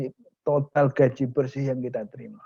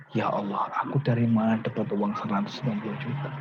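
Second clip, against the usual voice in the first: tearful prayer; 3 semitones lower, 4 dB quieter than usual. Acted. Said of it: "Nangis dia".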